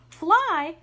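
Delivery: high, loud disbelieving echo; incredulous. A narrator's reading. Mother Bear doubts her cub can fly, loudly incredulous. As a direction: throw the word back in disbelief.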